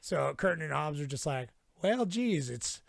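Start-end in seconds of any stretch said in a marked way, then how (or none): 1.8-2.8 higher, louder, hammed-up heartfelt lesson; mock sentimental moral. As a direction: deliver the cheesy moral like a sitcom ending. Joke punchline in character.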